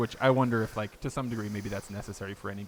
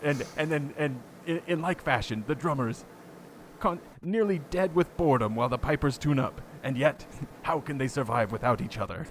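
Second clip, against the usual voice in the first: raised, hammed-up British documentary narrator; terrible British accent; 4 semitones higher than usual. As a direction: play up the drama in a fake British accent. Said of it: "here's my terrible British accent".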